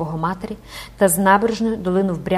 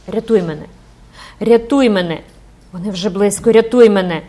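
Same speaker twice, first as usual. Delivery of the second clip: louder and louder cries for rescue; panicked girl begging her mother; desperate pleading; 7 dB louder than usual. Acted. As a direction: beg for your life, building to a shout.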